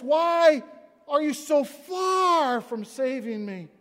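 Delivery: slow, high, loud plea; loud pleading cry. Acted. Preacher voicing Jesus' plea to God, slow loud cry. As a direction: plead it out slowly.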